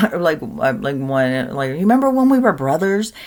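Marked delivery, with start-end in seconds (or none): 1.7-3.1 louder, lightly voiced eager child; imitated kid. Kid reminding parent of a past life, imitated child. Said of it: "there's tons of kids remembering".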